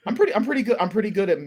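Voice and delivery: lightly put-on Australian lilt; mock Aussie accent. Host boasting in a light Australian accent. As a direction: brag in a light Aussie twang. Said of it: "mimicking accents".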